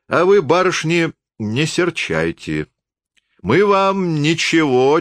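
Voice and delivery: a tipsy peasant holding forth, pitched high; drunk forester. A narrator's reading. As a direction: apologise grandly to the lady.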